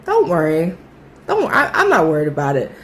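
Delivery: imitated chuckling reassurance, fairly low; low, unbothered, chuckly retelling; light chuckle. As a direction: brush it off with a little chuckle. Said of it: "chuckles and, like".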